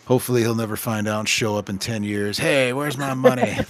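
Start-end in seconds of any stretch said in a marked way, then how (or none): 2.4-3.6 mock demanding customer. Customer imagined returning to demand money.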